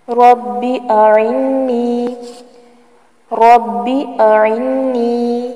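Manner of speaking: رب اعنی with a short, unlengthened ب. Shown as a demonstration. Teacher warning learners not to stretch the ب in رب. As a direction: keep the ب in رب short and quick. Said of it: "با کو لمبا نہیں کریں گے".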